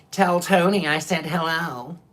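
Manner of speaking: little nasally puppet voice; lightly voiced nasal puppet; My Friend the Devil. Devil puppet sending Tony a message, in a little nasally voice. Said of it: "in that same little nasally voice".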